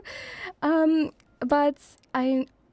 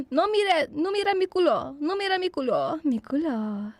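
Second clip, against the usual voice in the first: playful mock scolding; 3 semitones higher than usual.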